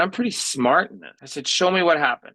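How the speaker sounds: confident helper. Retold or imitated.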